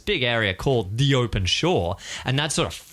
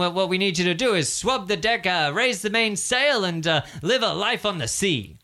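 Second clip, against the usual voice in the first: recruiter pitch; 6 semitones higher than usual. Acted. Recruiter explains duties.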